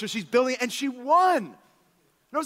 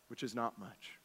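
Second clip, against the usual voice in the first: even softer, lower echo; softer repeat; 7 semitones lower, 14 dB quieter than usual. Shown as a demonstration. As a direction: repeat it almost under the breath.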